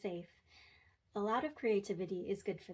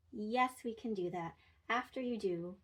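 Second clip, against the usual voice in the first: snarky yes. Shown as a demonstration. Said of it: "but not so snarky".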